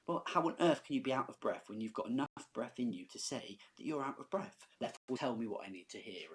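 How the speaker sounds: mock exasperated demand; lightly acted incredulous challenge; impatient Juliet. Teacher paraphrasing Juliet pressing the Nurse, mildly impatient. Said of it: "showing impatience".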